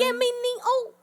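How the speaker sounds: put-on high joking Asian accent. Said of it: "I gotta talk with my Asian accent".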